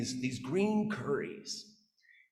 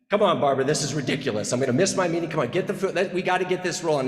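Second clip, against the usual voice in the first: impatient louder dad, pushing to get dinner going; irritated impatient dad; 6 dB louder, faster than usual. Retold or imitated. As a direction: hurry them up, annoyed.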